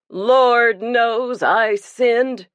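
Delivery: slow, drawn-out and ashamed; a broken man admitting his sin; abject confession. A narrator's reading. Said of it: "abjectly bowing his massive head".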